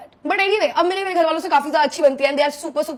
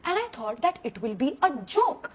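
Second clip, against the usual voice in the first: normal talking voice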